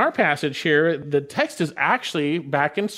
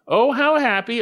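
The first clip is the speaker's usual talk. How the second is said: high, emphatic cry of happiness; emphatic exclamation; 7 semitones higher, 5 dB louder than usual. Shown as a demonstration. Preacher quotes the inspired author's opening, exclaiming. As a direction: exclaim each phrase with lifted pitch. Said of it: "is actually emphatic".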